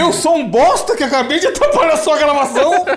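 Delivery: high, laughing mock confession; mock apologetic lover. Friend voicing the boyfriend's inner apology, high and laughing. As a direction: gush it out while cracking up. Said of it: "Tipo assim".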